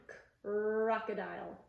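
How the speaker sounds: lone "K", then "crocodile" from a long, squeezed R; exaggerated R. Shown as a demonstration. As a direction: split off the "K" and stretch the R of "crocodile". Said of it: "Really exaggerate the R sound".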